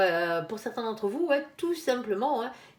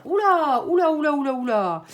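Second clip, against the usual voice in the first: loud, high alarmed oula; a startled run of oulas at the card; 4 semitones higher, 8 dB louder than usual. Real, not acted. Reader startled by a card, loud high alarmed oula.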